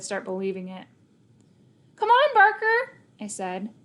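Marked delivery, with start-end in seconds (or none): 1.9-3.0 high, loud call to the dog; bright, loud "come on, boy"; eager call. A narrator's reading. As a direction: cheer the dog on to get going. Calling the dog to walk.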